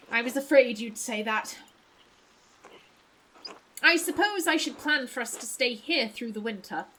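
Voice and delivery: put-on mildly posh accent; lightly played posh traveler. Traveler resigned to wintering in town, lightly posh accent. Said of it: "I'll give you posh voice".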